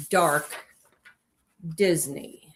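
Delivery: hushed spooky whisper. Pretend. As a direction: breathe it like a ghost story. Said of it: "That's my spooky voice".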